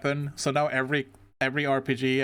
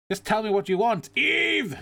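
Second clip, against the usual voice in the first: pleading character voice; 9 semitones higher, 3 dB louder than usual. Acted. Voicing a game character's plea.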